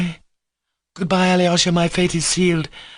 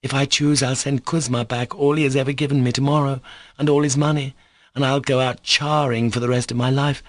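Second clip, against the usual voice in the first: hysterical scream; 7 semitones higher than usual. A narrator's reading. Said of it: "in an hysterical scream".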